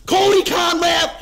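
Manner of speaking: tag. Real, not acted. Heated roll call of his targets.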